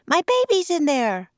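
high, loud frantic cry; a terrified mother begging for her child; frantic high-voiced plea; panicked mother. A narrator's reading.

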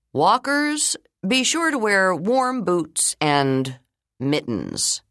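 measured, slow school principal on the intercom; slow, careful announcement to the school; slow principal's announcement. Acted. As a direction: principal addressing the whole school. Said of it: "he said".

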